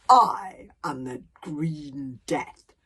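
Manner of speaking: very slow, breathy whispered monster name; menacing whispered introduction. Acted. Dragon introducing himself to Hiccup, slow whispered menace. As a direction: let the name hang like a threat.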